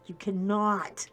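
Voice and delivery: slow, firm "You cannot" said aloud; firm warning. Retold or imitated. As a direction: spell it out slowly to him. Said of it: "and I'm like".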